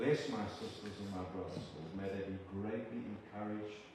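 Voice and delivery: measured, reverent prayer to God; earnest prayer. Acted. Preacher praying over the church family, earnest prayer. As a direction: pray it humbly over the congregation.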